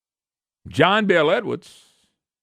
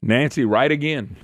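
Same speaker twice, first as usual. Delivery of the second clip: ordinary talk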